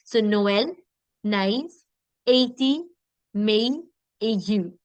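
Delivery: Noël, naïf, eti, mei, aigu, each vowel sharply separate; emphasis on both vowels. Shown as a demonstration. Teacher drilling tréma words, sharp separate vowels. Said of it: "put a little bit of emphasis".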